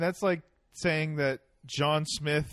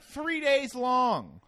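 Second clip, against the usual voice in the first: very slow, stretched words; drawn out; 9 semitones higher, 5 dB louder, much slower than usual. Real, not acted. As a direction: drag out every word. Exaggerating cricket length.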